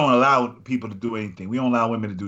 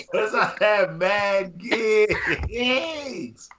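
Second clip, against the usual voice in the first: after laughing hard; 4 semitones higher, slower than usual. Real, not acted. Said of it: "Oh, my stomach hurt".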